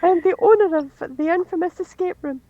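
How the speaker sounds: high-pitched showy self-introduction; escape room owner introduction. Acted. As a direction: introduce yourself as the notorious proprietor. Player rehearses character's grand self-introduction.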